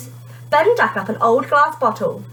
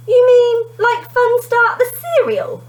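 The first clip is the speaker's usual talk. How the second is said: high, loud shocked question; can't believe it's cereal; disbelieving; 6 dB louder, slower than usual. A narrator's reading. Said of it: "Kerry disbelieving the coin".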